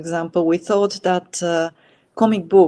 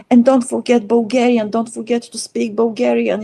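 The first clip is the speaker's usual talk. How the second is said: higher, insistent motherly reminder; a hint of a fussing mother, pitched up; mother urging her before Japan, lightly mimicked and raised; imitating her mother; 6 semitones higher, 4 dB louder than usual. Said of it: "my mother would be like".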